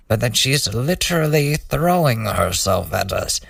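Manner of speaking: dry sarcastic deadpan reading. Retold or imitated. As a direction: read it with heavy sarcasm. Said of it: "the fucking sarcasm".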